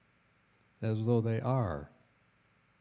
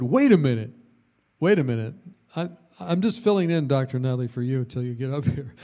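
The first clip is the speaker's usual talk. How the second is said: mock protest; 6 dB louder, faster than usual. Retold protest to teacher.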